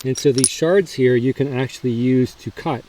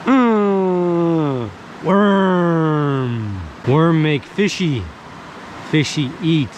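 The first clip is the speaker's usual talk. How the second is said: caveman voice; much slower than usual. Pretend. Caveman-style bushcraft vlog.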